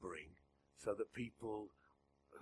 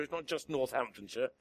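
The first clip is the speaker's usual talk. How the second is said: ordinary talk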